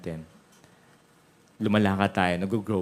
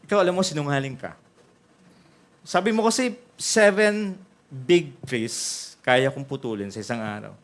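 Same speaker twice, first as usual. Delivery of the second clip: angry customer; 4 semitones higher than usual. Acted. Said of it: "Sabi niya".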